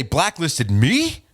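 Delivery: slow, drawn-out mock disbelief; feigned alarm. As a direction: play dumb, stretching the question out. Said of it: "I'm pretending that he, uh, put a hit out on me".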